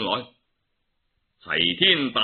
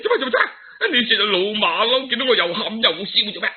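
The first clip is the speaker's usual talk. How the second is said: Monkey King voice; 7 semitones higher, much faster than usual. Acted. Monkey King questions the weeping monkeys.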